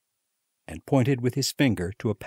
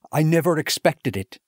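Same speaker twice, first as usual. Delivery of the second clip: higher and louder, stress on never; excited disbelief; 7 semitones higher, 4 dB louder than usual. A narrator's reading. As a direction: still can't believe it, elated. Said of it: "with excited face".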